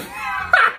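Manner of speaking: very high squealing laugh. Real, not acted. Cook laughing at the candle salad, high squealing laugh.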